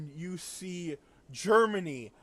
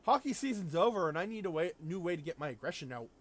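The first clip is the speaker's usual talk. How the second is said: imitating Canada; 3 semitones higher, faster than usual. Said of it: "Canada shows up and says".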